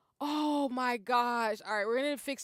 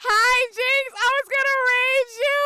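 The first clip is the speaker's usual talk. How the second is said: excited greeting; 12 semitones higher, 9 dB louder than usual. Real, not acted.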